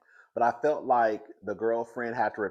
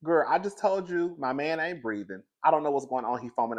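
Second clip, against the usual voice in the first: higher-pitched mild exasperation; frustrated caller; 5 semitones higher than usual. Pretend. Acting the girlfriend repeating herself to the dispatcher, mildly frustrated. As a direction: insist as a fed-up caller. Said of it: "I would have been so frustrated".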